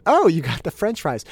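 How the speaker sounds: high, loud delighted burst; excited. Retold or imitated. Dad seeing his son's french fry eraser, excited. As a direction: react like a thrilled dad.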